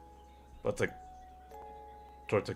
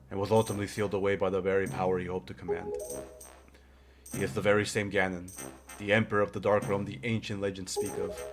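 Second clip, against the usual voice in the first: put-on wise old man voice. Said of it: "a more wise old man voice".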